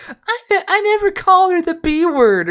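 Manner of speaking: high, loud, outraged denial; yelling back to deny it. Retold or imitated. Worker yells at the manager to deny the insult. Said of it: "raised his voice, like, at least twenty decibels".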